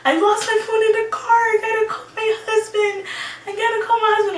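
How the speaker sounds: near-screaming panic, rushing the words; frantic panic. Retold or imitated. Frantic after losing her phone in the wrecked car. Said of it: "I'm like".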